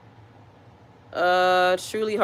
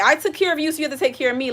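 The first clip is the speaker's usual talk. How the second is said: guilt-tripping parent; 7 semitones higher, much faster than usual. Pretend. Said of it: "I don't wanna be like".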